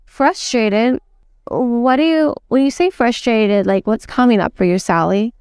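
gentle, curious questioning with pauses; curious soft tone. Shown as a demonstration. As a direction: ask softly, pausing between phrases. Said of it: "Notice my tonality. Notice my tone, my pauses".

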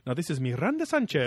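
imitating a newscaster over-pronouncing "Miranda Sanchez"; mock newscaster pronunciation. Mocking LA newscasters for listeners, accented on "Miranda Sanchez". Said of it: "like how newscasters in L A would go".

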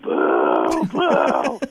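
boo like a whole hostile crowd; put-on crowd jeering, drawn out; imitating booing crowd. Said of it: "to just thunderous boos".

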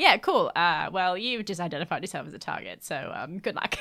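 dry sarcastic brush-off; deadpan, mocking good luck. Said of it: "And I was like".

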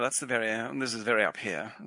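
half-hearted posh English accent; lightly faked posh accent from England. Shown as a demonstration. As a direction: attempt a posh English accent, placed "up here". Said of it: "The posh accent in England is".

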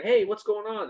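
a lively, upbeat hello from an energetic person; upbeat greeting. Retold or imitated. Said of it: "they're gonna".

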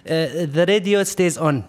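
put-on haggling salesman with Arab accent. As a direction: imitate an Arab car seller reassuring a buyer. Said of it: "I'm gonna try to talk to his accent".

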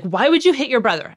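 imitating her own angry lecture to a child; mad lecturing. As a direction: scold him as an angry parent. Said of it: "I'm just lecturing because I'm mad".

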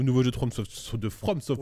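tripping over the name; stumbling. Real, not acted. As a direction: trip on the words and stop. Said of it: "C'est pas mieux la deuxième fois".

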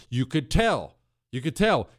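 normal talking voice

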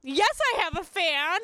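slow, emphatic retold comeback; host answers her doubting ex, slow proud insistence; proud retort. Draw it out defiantly. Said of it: "And I was like".

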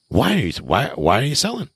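high-pitched, halting, baffled question; puzzled, rising disbelief; incredulous asking. Shown as a demonstration. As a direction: stumble into the question, voice climbing high. Demonstrates asking about a wreck of house.

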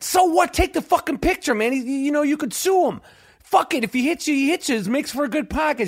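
high-pitched, pushy retelling of his own pep talk; excited urging. Retold or imitated. Urging friend to take picture.

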